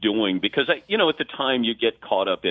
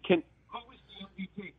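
yelling down; 9 semitones higher, 11 dB quieter, faster than usual. Retold or imitated. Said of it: "I yell down".

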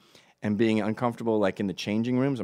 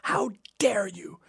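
mock whispered scold; 10 semitones higher, slower than usual. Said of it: "she started screaming at me".

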